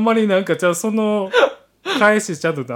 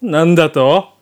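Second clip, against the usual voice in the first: gruff soldier; 7 dB louder, slower than usual. Acted. Soldier welcoming the heroine home, gruff and curt. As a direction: play a tough guy hiding embarrassment.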